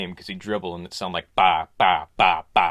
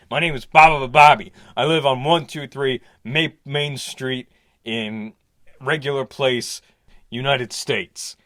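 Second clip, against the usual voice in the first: louder, slowed put-on voice; Bobby on tape; 4 semitones higher, 6 dB louder than usual. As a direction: announce yourself to the camera. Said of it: "and he's going".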